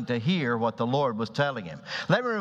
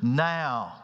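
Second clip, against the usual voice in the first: slow, higher pleading Peter; persistent plea; 6 semitones higher, slower than usual. Acted. Peter insisting to Jesus, slow and high. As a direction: press the question, drawn out and higher. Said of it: "But Peter persisted, and he said".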